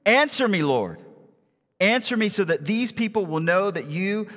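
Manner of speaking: declaimed prophet's prayer, building to a plea; fervent prayer. Acted. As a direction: appeal to God aloud with conviction. Acts Elijah's prayer at the altar.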